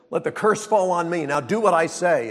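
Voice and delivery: loud, commanding mother voice; bossy mother. Retold or imitated. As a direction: order him about like a stern mother. Mother commands son in story.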